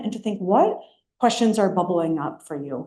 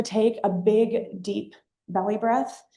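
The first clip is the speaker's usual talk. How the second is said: slow and softer, easing into the breath; slow calming voice; 5 dB quieter, slower than usual. Shown as a demonstration. Presenter showing parents a calming breath, slow and soft.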